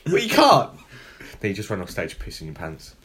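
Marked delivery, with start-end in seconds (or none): 0.1-0.7 higher, louder, slow mocking taunt. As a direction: sneer it at the kid. Acted taunt to kid.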